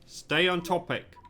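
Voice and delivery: firm, clipped command to stay on topic; stern order. Acted. Chief of Security orders Lewis back on topic, stern. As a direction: shut the suspect down, curt and firm.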